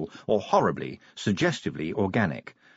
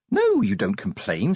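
snapped; 11 semitones higher than usual. A narrator's reading. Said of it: "snapped Angua".

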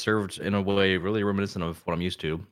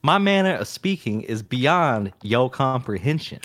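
put-on voice; 4 semitones higher, 4 dB louder, slower than usual. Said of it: "I'm gonna do a normal voice".

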